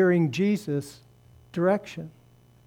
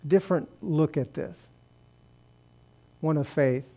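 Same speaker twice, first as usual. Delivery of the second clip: earnest prayer. Acted. Closing prayer over congregation.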